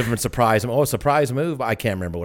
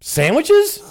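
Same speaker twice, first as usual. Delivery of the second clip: laughing. Retold or imitated. Cop quote, laughing.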